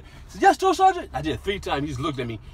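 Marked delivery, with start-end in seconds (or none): 0.4-1.1 shouted reply. Retold or imitated. Recruit answering drill sergeant.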